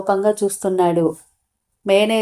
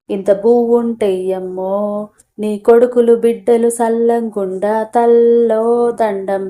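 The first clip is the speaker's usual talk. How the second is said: slow, drawn-out beggar's plea, lightly sung; mock a street beggar wailing for food; beggar's sing-song; slower than usual. Manager mocking the staff as future beggars, in a slow sing-song plea. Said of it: "పాటలు పాడాల్సి వస్తాది".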